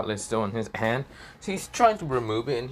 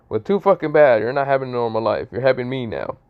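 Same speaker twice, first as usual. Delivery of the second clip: louder, blunt dragon retort; gruff retort; 3 semitones higher, 6 dB louder than usual. Acted. The Red Dragon Emperor telling Issei off, loud and blunt. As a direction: shut the kid down hard.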